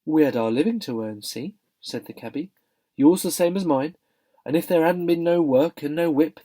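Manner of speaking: loud Cockney cabby arguing. Acted. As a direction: defend yourself like a cabman. Cabby justifying himself.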